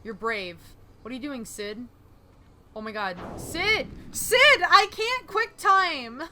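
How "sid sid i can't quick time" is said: panicked screaming. Real, not acted. Panicking as Sid is in danger.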